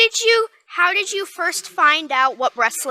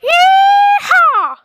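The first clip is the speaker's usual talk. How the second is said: loud high yeehaw shout; 7 dB louder than usual. Pretend. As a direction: holler it out like a cowboy. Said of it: "That's, that's the right idea".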